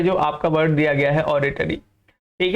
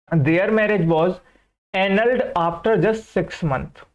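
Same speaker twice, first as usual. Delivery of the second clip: very slow reading; much slower than usual. Shown as a demonstration. Teacher reading the example sentence to students, very slow. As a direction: read the example slowly, word by word. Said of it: "teacher reads example sentence".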